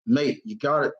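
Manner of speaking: light, wobbly imitation of an Australian accent; a brief stab at an Australian accent; attempted Aussie accent. Imitating Aussie friends recommending Tim Tams, loose Australian accent. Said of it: "I'm breaking the accent".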